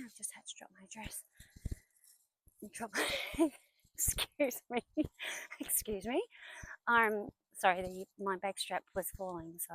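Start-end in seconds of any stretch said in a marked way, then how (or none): 2.7-6.2 real laughter breaking into the words; giggling. Real, not acted. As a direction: laugh through the apology. Laughs at dropping the dress.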